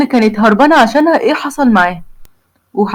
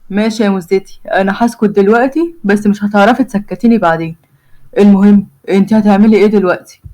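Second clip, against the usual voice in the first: lower, teasing groom; Omar's voice; 3 semitones lower than usual. Acted. The groom teases his bride-to-be, lightly lower. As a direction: flirt with a cheeky grin. Omar replies.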